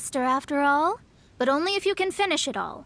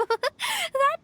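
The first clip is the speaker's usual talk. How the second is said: slow, higher, awkward cover-up; flustered denial; 11 semitones higher than usual. Acted. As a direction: pretend nothing happened. Covering embarrassment.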